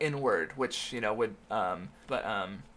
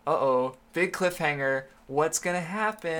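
sarcastic; slower than usual. Real, not acted. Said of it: "that was sounded really sarcastic".

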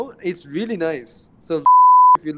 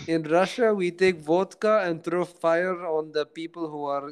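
put-on Russian accent. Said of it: "you did an entire Russian accent".

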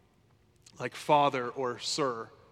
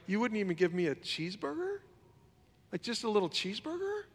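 high whining plea for a cheeseburger; whiny older brother; 6 semitones higher, 5 dB quieter than usual. Retold or imitated. Pastor voicing the older brother, high and whiny. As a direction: sulk like a jealous kid brother. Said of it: "he's like".

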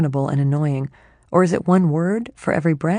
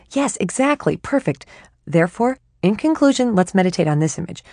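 higher, louder, mock formal; pompous chatty mind; 3 semitones higher, 3 dB louder than usual. Her mind wrapping up pompously, eager and chatty. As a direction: conclude grandly.

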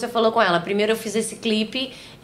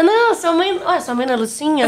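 puzzled grandma; 6 semitones higher than usual. Retold or imitated. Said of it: "Aí minha mãe, Heloísa".

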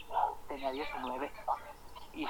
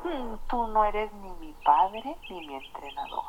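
mocking teen; 4 semitones higher than usual. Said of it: "y riéndose".

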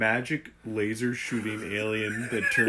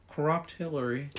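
Trump impression; 6 semitones higher than usual. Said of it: "You just have to channel".

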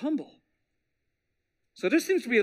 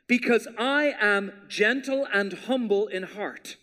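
slow emphasis; slower than usual. Shown as a demonstration. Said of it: "look at what it says in the middle".

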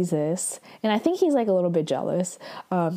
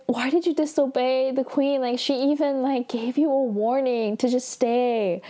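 higher-pitched mock reproach; imitated tearful whining; 5 semitones higher than usual. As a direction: scold with a light, imitated whine. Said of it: "whining, whining, and crying".

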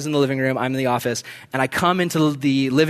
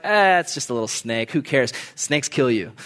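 lower, dismissive shrug; mock indifference; 4 semitones lower than usual. Preacher voicing those careless about sin, low dismissive shrug. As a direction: toss it off as no big deal.

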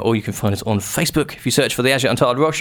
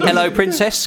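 higher Essex catchphrase; Essex accent; 5 semitones higher than usual. Shown as a demonstration. Host giving the next line to copy, Essex accent. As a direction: model a cheeky Essex greeting. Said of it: "What's your best Essex accent".

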